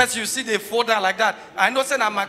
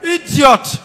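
mock insult; 3 semitones higher, 5 dB louder than usual. Mock outrage.

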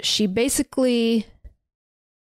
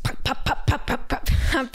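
stabbing noises; 4 semitones higher, faster than usual. Retold or imitated. Stabbing sound effect.

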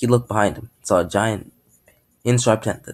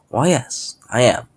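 enthusiastic; 3 semitones higher, slower than usual. Acted. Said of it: "very enthusiastically".

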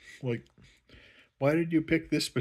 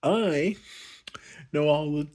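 mock Rey; 3 semitones higher, 3 dB louder than usual. Rey boasting she's a Skywalker, mock smug. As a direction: boast like the chosen one. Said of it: "And I'm like".

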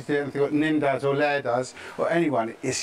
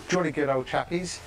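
English. Acted.

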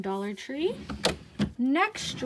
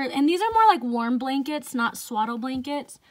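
talking short of breath; winded, breathing between words; 3 dB louder than usual. Real, not acted. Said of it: "Sorry if I'm out of breath".

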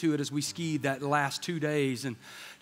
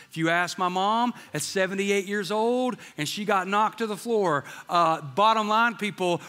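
building to climax; 3 semitones higher than usual. Real, not acted. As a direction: preach it up to the final point.

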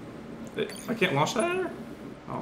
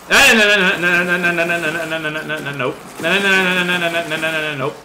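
panicked refusal; 2 semitones higher, 4 dB louder than usual. Real, not acted. Rapid refusal during game threat.

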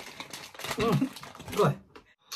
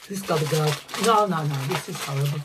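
disgusted outburst; 6 dB louder than usual. Real, not acted. Spitting out toxic waste.

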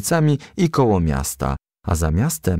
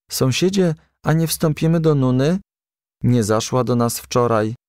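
a higher, lightly voiced little boy asking; child's voice; 4 semitones higher than usual. Promyczek asking the neighbour about Nuna, higher child voice. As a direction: pitch it up like a small child.

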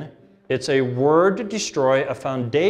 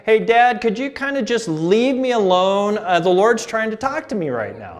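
higher and louder, pleading to be left alone; son sending dad away; 6 semitones higher, 3 dB louder than usual. Retold or imitated. Son to knocking dad, higher louder plea to leave. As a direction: through the door, please go away. Son behind bedroom door.

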